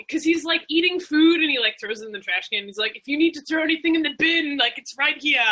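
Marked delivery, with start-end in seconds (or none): 3.0-5.4 lightly put-on Australian accent; a weak stab at an Australian accent; bad Australian accent. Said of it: "That's my terrible Australian accent".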